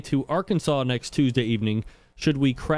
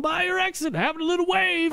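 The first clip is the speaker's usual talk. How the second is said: much higher, sing-song teasing of diva Q; mock sweet text voice. Host mocks diva Q's text about passing his exit, in a high sing-song voice. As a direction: mimic her cheery drive-by wave message, mock-sweet.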